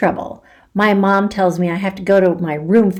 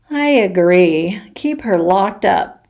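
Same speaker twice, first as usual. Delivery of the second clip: grumbling, mouth full. Acted. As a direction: grumble through a mouthful of popcorn. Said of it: "grumbles Missus Gobblecracker with her mouth full".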